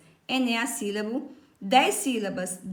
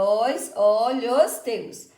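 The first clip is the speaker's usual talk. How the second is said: "os, o, lhos, teus" pulled apart and held; syllable by syllable; 4 dB louder, much slower than usual. Shown as a demonstration. Teacher counting the verse for pupils, syllable by syllable. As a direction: count out "os olhos teus" in separate, stretched syllables. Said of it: "Então, a gente conta".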